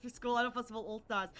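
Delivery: imitated Australian game-title call; game title with Australian vowels; Australian accent. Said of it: "with the Australian accent".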